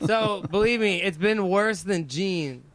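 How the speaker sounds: normal talking voice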